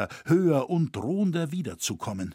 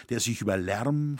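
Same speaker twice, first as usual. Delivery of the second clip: ordinary delivery, nothing marked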